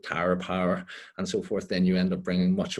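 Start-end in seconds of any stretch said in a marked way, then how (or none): 0.0-0.9 the band name in a light Tyrone accent; a hint of Tyrone on the band name. Shown as a demonstration. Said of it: "in a Tyrone accent".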